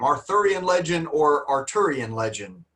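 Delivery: Arthurian with TH, then Arturian with a hard T; both pronunciations. Shown as a demonstration. Teacher sums up American and British versions, contrasting them. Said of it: "British people might say Arturian legend".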